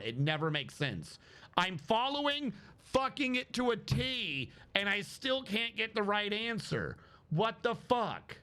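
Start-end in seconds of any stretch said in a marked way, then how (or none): 1.6-8.4 real exasperation, pitch up; indignant, slowing hard on the final curse; pissed off. Real, not acted. Gamer who followed the quest to a T, pissed off. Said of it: "I'm getting pissed".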